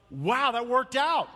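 mock astonishment at coming through; amazed relief. Anyone looking back on worries they got through, amazed relief.

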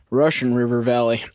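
"Russian" leaned on; stress on Russian. Shown as a demonstration. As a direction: put the weight on "Russian". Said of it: "Emphasis on Russian".

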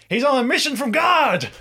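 high, loud joking shout; mock yell. Friend shouts a Blues Brothers joke, high and loud. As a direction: bellow the joke across the table. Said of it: "Winston yells out".

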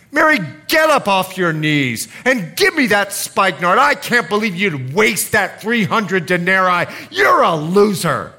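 loud, scolding rebuke; angry Judas. Acted. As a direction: snap at her to get up.

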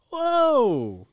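high, loud, drawn-out protest; alarmed shout. Real, not acted. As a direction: cry out to cut them off. Objects to location being revealed.

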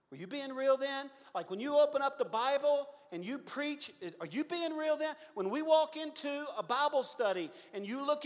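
a wife demanding the truth, rising to a loud cry; wife confronting her husband about being real, rising from earnest to loud pleading; pleading wife building. Retold or imitated.

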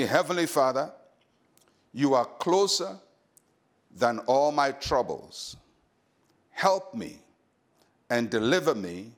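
prayer in short phrases with long pauses; led prayer. Real, not acted. Pastor asking listeners to say it with him, measured prayer. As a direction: pray it phrase by phrase, leaving room to repeat.

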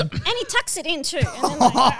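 loud laughing description; laughing hard. Real, not acted. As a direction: crack up while talking. Laughing while roasting.

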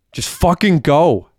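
high, drawn-out yell; desperate yell. A narrator's reading. Derek to the gunman robbing him, slow high yell. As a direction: yell at them to leave, stretching the words. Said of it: "yelled Derek".

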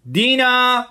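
high, loud drawn call; calling out again. Acted. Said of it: "مرد خندید و صدا زد".

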